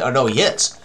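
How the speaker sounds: ordinary talk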